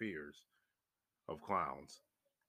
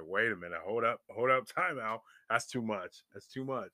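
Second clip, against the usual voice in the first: emphatic, louder mock protest; calling a halt; 3 semitones higher, 6 dB louder than usual. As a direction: act out backing off, overwhelmed.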